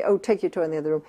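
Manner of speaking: brisk, quick and confident, no pleading; just state it like it's obvious; matter-of-fact. Shown as a demonstration. Mother telling a toddler to move the toy, matter-of-fact. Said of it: "in a very matter-of-fact voice".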